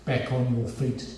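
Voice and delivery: slow, understated imitation of a lecturer; unfazed stern lecturer. Lecturer calling Timothy back up after the long name, slowly deadpan. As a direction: draw out the order with a deadpan teacher's restraint. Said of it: "gave the faintest sign of a nod".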